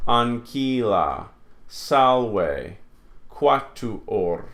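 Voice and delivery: "Anquila, salve, quatuor" divided between the consonants; careful, separated syllables in "Anquila, salve, quatuor"; measured word list "Anquila, salve, quatuor"; split consonants. Shown as a demonstration. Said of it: "you split the consonants".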